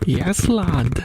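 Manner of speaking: put-on lightly Scottish elf accent. Elf answering a viewer, in a put-on Scottish accent. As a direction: play an elf turned Scottish. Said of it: "The elf has become Scottish".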